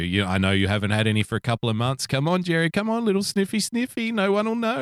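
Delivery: high, sly dealer's coax; tempting devilish whisper. Retold or imitated. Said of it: "like dangling a bag of cocaine".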